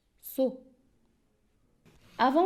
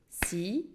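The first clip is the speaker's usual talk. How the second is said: "citron" cut in two, ci, long pause, tron; syllable by syllable; 2 semitones lower, 3 dB quieter than usual. Shown as a demonstration. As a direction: clap out both beats of "citron". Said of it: "se compose de". (« citron » découpé en deux syllabes)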